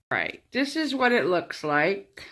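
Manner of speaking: talking around a paintbrush; mouth full. Real, not acted. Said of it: "I have a paintbrush in my mouth".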